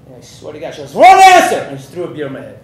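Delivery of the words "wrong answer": very high, loud Irish yell; Irish accent. Retold or imitated. Irish wife rejects drunk husband's answer, yelling in Irish accent. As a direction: burst out in a mock-furious Irish shout. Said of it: "this is my best Irish accent".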